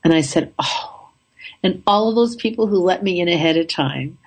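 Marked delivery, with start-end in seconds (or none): 0.6-1.1 breathy unvoiced little oh; deflated whisper. Told at the gate the plane has left, a whispered oh. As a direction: let the air out of the news, whispered.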